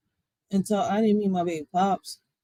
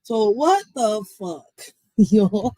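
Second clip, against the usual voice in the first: laughing disbelief; 7 dB louder, slower than usual. Real, not acted.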